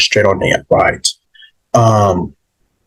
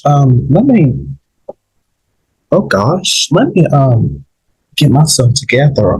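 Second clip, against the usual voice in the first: on the verge of tears; 5 semitones higher than usual. Real, not acted. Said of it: "I'm quite getting emotional right now".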